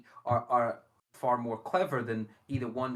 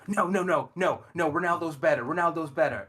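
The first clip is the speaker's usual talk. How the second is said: raised, loud insistent objection; hammed-up stubborn repetition, loud and higher; imitated fan protest; 4 semitones higher, 6 dB louder than usual. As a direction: protest like a fanboy who won't hear otherwise. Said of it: "and he'd go".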